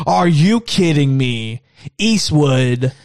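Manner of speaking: slow, disbelieving mock scolding; retold scolding mom. Mom to son asking about the haunted house, mock scolding. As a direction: draw it out like an exasperated mother.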